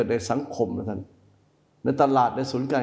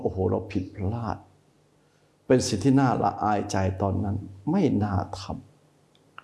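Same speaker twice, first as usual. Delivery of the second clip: regretful admission; 3 semitones lower, slower than usual. Acted. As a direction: sigh it out as if ashamed. Inner voice admitting a mistake. (คนสำนึกผิดพูดกับตัวเองเบาๆ ช้าๆ อย่างเสียใจ)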